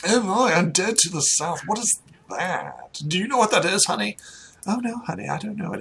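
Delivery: lightly voiced aristocratic puzzlement; mildly flustered gentry; baffled noble couple. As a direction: consult your spouse about a strange word. Game master voices noble couple.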